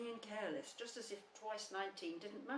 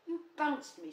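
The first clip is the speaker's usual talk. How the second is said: loud, high gruff accusation; 8 semitones higher, 9 dB louder, slower than usual. A narrator's reading. Eeyore accusing Tigger of bouncing him, gruff. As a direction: throw the blame back loudly and gruffly. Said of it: "said Eeyore gruffly".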